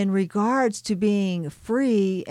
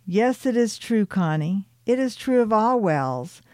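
proudly; 3 semitones higher than usual. Acted. Ariel proudly answers Tillicum about being a well, proud. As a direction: declare it like a proud ocean well. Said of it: "she said proudly".

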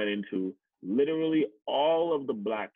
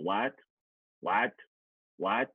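incredulous cashier; 2 semitones higher, much slower than usual. Retold or imitated. Cashier pretending not to understand dad, rising incredulous what. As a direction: play the cashier who won't understand. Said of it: "she's sitting there as he's trying to just ask".

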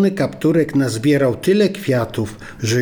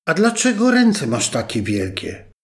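put-on wondering little girl; 5 semitones higher than usual. Girl at the bedside asking grandma, in a high wondering child voice. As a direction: let the surprise open the question. Girl questioning disguised wolf.

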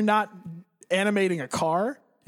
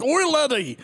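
hammed-up Irish shout, higher; a big drunk Irishman calling out in a raised Irish accent; mock Irish brogue, higher and louder; imitating Irish drunk; 6 semitones higher, 3 dB louder, slower than usual. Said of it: "he's like".

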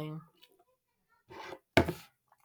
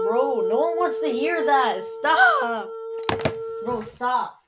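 loud, high exasperated yell; yelling at friend; 7 semitones higher, 9 dB louder, slower than usual. Real, not acted. Yelling at his friend to quit the noise, loud high shout. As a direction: shout him down, fed up.

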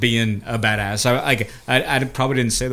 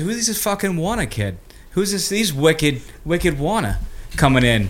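mock Boston accent; 2 semitones higher, 4 dB quieter than usual. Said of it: "Never too much in a Boston accent".

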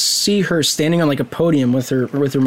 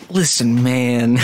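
low, measured impression; deep, composed celebrity imitation; Morgan Freeman; 5 semitones lower, much slower than usual. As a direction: drop the pitch and play the calm authority. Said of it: "Like, Morgan Freeman voice".

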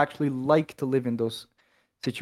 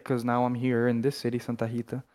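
narrator-like; 2 semitones lower than usual. Real, not acted. Telling a friend which city he is in, lightly narrator-like. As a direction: set the place like a movie intro, understated. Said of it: "you sound like a narrator".

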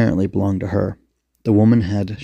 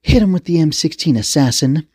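high, raised-voice command; sharp, pitched-up attack order; barked order; 7 semitones higher than usual. Acted. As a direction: order the squad to open fire. Commander orders her squad to fire.

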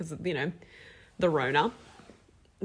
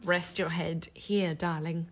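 soothing; 2 semitones lower, 6 dB quieter, slower than usual. Pretend. Playing a comforting bosom.

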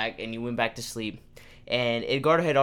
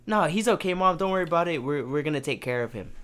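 fake confidence; 4 semitones higher, faster than usual. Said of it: "in pure confidence".

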